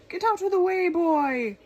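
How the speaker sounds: loud, high commanding shout; ordered. Acted. King ordering Boy off the battlefield, loud commanding shout. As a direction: order him out of the fight. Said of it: "ordered the king".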